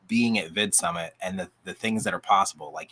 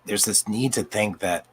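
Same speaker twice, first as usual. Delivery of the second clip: real voice starting to give out; voice going out; 2 semitones higher than usual. Real, not acted. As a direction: speak as the voice begins to fail. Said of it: "sorry, my voice is going out".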